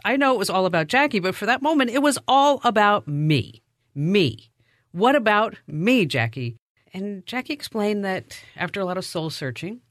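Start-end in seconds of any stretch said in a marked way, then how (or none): 1.9-6.6 mock self-pity. Host retelling her reaction to Jackie leaving, mock self-pity. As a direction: make it all about poor you.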